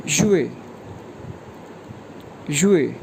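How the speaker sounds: युए dropped sharply; falling fourth tone. Shown as a demonstration. Teacher repeating युए for learners, falling. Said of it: "ये pronounce होगा युए".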